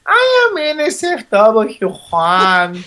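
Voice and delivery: slow, hammed-up fake Spanish accent; mock Spanish accent. To the hosts, slow self-introduction in a mock Spanish accent. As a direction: announce yourself in a bad Spanish accent.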